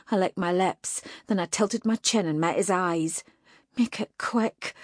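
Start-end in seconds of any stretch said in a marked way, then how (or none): 3.8-4.7 defiant. Acted. Captive defies demon.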